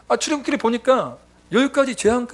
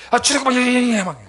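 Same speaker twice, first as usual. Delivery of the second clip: loud, high, sputtering protest; flustered angry complaint; 5 semitones higher, 5 dB louder than usual. Retold or imitated. Pastor answering God while still angry, sputtering protest. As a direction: splutter it out, still fuming. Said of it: "이렇게 화가 나서 와 막 이러고".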